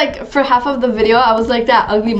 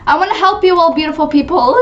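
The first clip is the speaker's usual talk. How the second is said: higher, fuller playful proclamation; mock-grand offer, pitched up; grand helper; 3 semitones higher, faster than usual. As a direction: announce it to your adoring crowd. Repeats it to the crowd.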